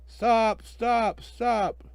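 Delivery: high barked stop, stop, stop; traffic cop shouting. Acted. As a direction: blow out each stop like a whistle. Cop blows whistle, shouts stop.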